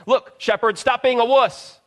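an angel mockingly scolding a frightened shepherd. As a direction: wag a finger and scold the shepherd. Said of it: "shaking their fingers saying".

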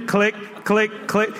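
short, spaced mechanical clicks; spoken ratchet sound, evenly spaced; imitated clicking. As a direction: tick off the coaster's climb click by click. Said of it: "All you hear is click".

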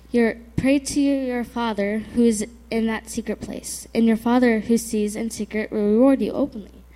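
reading a Bible passage aloud; scripture reading. Real, not acted. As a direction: read the verse out clearly to the group. Reads Bible verses aloud.

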